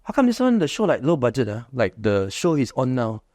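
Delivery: lightly voiced Singlish contractor character; Phua Chu Kang. Actor in character as Phua Chu Kang hyping his show, cheeky Singlish. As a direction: hold a cheeky Singlish uncle persona.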